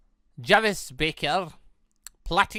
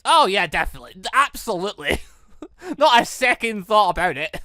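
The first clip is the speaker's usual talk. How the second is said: eager agreement; 3 semitones higher, 6 dB louder than usual. Acted. Jin eagerly agreeing, laughing.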